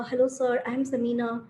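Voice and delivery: mildly meek self-introduction. Shown as a demonstration. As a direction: introduce yourself timidly, holding back a little. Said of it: "start with very meek language".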